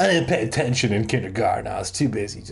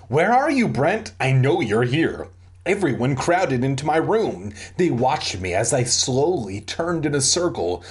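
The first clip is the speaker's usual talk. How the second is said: animated storybook reading with voiced dialogue; story narration; 3 semitones higher than usual. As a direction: read it out like a lively audiobook. Reads a story aloud.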